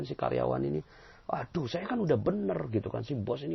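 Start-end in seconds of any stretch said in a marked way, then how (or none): 1.3-2.6 high, complaining aduh, mock-hurt; a hint of a sulky employee; whiny employee. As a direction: pitch up like a wronged employee. Employee complaining about the boss.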